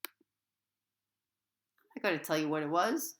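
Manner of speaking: slow teasing tone. A narrator's reading. Narrator teasing readers about next chapter, slow. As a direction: drag it out to tease.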